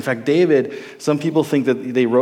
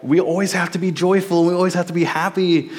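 high, sing-song mock of forced cheer; 6 semitones higher than usual. Mocking the college community's rule of constant joy, fake cheer. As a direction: parrot them in a fake-cheerful voice.

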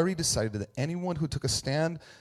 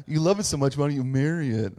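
mocking sarcasm; 4 dB louder than usual. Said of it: "Which is like".

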